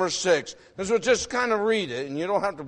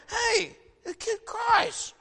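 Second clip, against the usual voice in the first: mocking a brushed-off parent; 13 semitones higher, 5 dB quieter, slower than usual.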